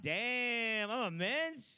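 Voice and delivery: mock flattered surprise. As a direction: react like you just got a compliment. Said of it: "I'd be like".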